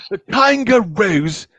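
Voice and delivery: high, drawn-out Australian amazement; slow, gushing Aussie wildlife host; Steve Irwin. Acted. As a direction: stretch the words with Australian wonder. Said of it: "How about Steve Irwin?".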